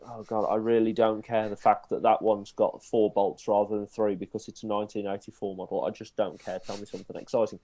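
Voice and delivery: bored onlooker. Retold or imitated. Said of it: "I can see people sat there going".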